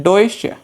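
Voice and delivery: डॉयचे in two clear syllables, "doy-che"; pronunciation of डॉयचे. Shown as a demonstration. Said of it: "इसका pronunciation होता है".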